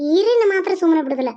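loud, high-pitched threat; indignant outburst; angry vow. Acted. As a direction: vow revenge with heat. Angry mother vows revenge.

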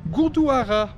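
Gurdwara with a French uvular r, gur-dwa-RA; jokey fake French pronunciation of Gurdwara; mock French accent. Vlogger tries a French accent on the temple name. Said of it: "Do I say it with a French accent?".

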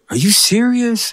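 high, slow, disbelieving; wife hearing he is coming home, slow and high with disbelief; amazed wife. Retold or imitated. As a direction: stretch it out in astonished disbelief. Wife reacting to the news.

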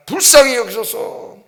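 imitated loud plea, last words drawn out; crying out. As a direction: call for mercy like the blind man. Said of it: "그렇게 외칩니다".

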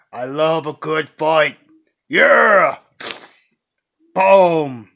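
hammed-up Russian accent, building to loud battle cries; mock Russian accent. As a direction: do the Saints Row Russian guy taunting bad guys in a Russian accent. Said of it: "I'll have a Russian accent for the guy".

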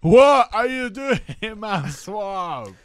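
loud, high, drawn-out ogre bellow; Shrek. Acted. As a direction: bellow like an outraged cartoon ogre. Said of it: "Is that Shrek".

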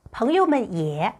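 朋友们也 spoken very slowly, syllable by syllable; teacher reading 朋友们也 slowly; slow model reading. Shown as a demonstration. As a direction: spell out 朋友们也 for learners. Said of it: "你也".

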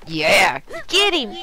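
loud, excited egging-on shout; root for the fighter at full voice; cheering yell. Real, not acted. Player cheering as the burglar gets beaten, excited yelling.

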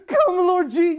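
Come, Lord Je- shouted high and loud with eagerness; eager cry. Acted. Believer welcoming Christ's coming with a loud, eager shout. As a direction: call him in with joyful impatience. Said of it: "And your response to his coming is".

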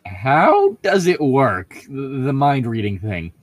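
put-on a touch of an eager girl; lightly voiced curious Bella, rising. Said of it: "I'm giving Bella way too much character with the voice".

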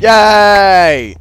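high, loud drawn-out whoop; gleeful cheer. Real, not acted. Gamer getting a rival's bed, gleeful cheer. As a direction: cheer your own small victory.

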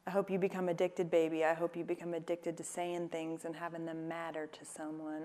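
light Southern accent, quick at first. Shown as a demonstration. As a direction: read the script line in a soft Southern accent. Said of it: "I said it in a Southern accent for you".

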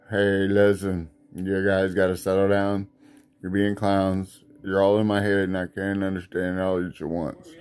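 stern inner voice. Acted. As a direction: settle the rowdy voices down like a weary elder. A deeper inner voice scolds.

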